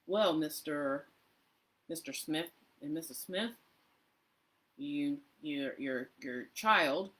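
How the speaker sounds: measured parent-conference teacher voice. Shown as a demonstration. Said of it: "the voice that I have if I'm doing a teacher conference".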